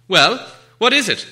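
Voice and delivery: high, loud impatient prod. Acted. Bilbo pressing Gollum for an answer, impatient. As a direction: hurry him up, impatiently. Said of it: "he said".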